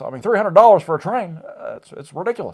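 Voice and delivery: earnest campaign promise in a borrowed twang; Obama with a Carter twang. Acted. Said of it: "a hint of Jimmy Carter in there".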